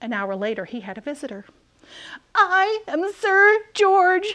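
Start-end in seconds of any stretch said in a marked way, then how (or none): 2.4-4.3 thin, high squeaky voice, very slow and drawn out. Narrator voicing a knight calling out to a dragon: squeaky voice. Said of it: "squeaked a thin, shiny knight".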